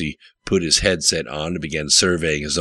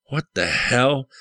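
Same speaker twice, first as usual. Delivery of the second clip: shocked cry rising much higher; alarmed yell; 8 semitones higher than usual. A narrator's reading. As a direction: yell back in disbelief at the screen. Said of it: "he yelled back".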